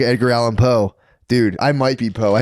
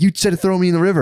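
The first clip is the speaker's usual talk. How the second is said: mock reproach; 8 semitones higher, faster than usual. The head answers in dream.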